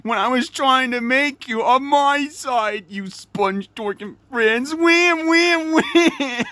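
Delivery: mock the bratty ghost pirate; whiny Flying Dutchman. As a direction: kid hamming up a sulky ghost. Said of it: "he's always like".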